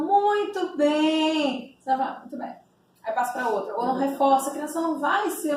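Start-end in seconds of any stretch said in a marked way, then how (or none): 0.1-2.6 drawn-out, sung-like "muito bem"; praising intonation. Shown as a demonstration. Therapist praising a child with an encouraging, singing "muito bem". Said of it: "tem que ser com a entonação".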